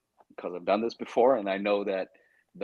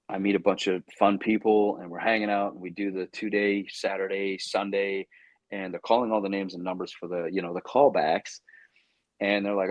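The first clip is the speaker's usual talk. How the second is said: ordinary talk, nothing marked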